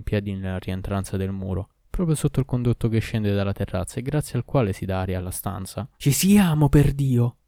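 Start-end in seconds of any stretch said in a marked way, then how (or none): 6.0-7.4 high, loud exclamation; indignant shout. A narrator's reading. Purveyor spots a man under the air shaft, shouting. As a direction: cry out on catching an intruder. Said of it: "gridò il provveditore".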